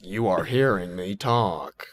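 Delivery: slow, stiff Al Gore voice; Al Gore impression. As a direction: drag out each word like a stiff politician. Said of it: "the Simpsons thing of".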